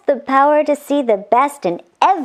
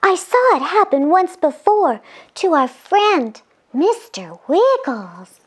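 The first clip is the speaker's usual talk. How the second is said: put-on lightly raised girlish voice; angel voice; 5 semitones higher than usual. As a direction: explain it with concern. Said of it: "said Angel Scarlet".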